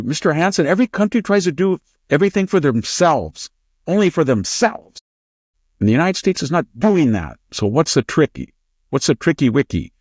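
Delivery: high-pitched put-on Chinese accent; Fang Fang. Interviewer questioning Mister Hansen, exaggerated Chinese accent. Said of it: "I was emulating her accent".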